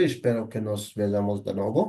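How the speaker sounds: slow, careful Spanish model phrase. Shown as a demonstration. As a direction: spell out each word slowly for learners. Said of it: "ঠিক same ভাবে ওরা যেটা বলে".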